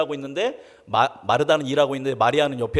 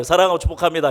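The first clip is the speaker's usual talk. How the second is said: loud greeting demo; 2 semitones higher, 7 dB louder, faster than usual. Shown as a demonstration. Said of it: "다시 한번 축복해 볼까요".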